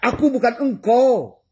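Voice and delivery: high, slow, loud voice of the mirror glass; voicing the mirror. Preacher lets the mirror speak, high and drawn out. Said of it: "Kata si cermin kaca".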